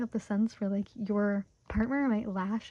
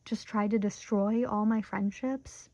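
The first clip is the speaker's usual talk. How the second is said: imitating Eleanor; slower than usual. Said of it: "Where it's like".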